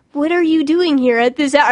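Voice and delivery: put-on Southern accent. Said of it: "when I would do the Southern accent".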